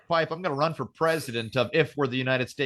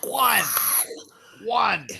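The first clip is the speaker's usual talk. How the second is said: mock baby cry; 5 semitones higher than usual. Mimics baby daughter's cry.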